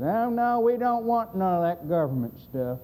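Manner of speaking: mock indignant brush-off of a caller; imitated refusal. Refusing lady quoted in story.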